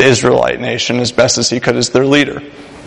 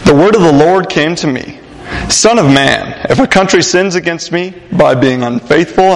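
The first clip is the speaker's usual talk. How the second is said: scripture reading; 2 semitones higher than usual. Acted. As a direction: read the verse with reverence. Reads scripture aloud.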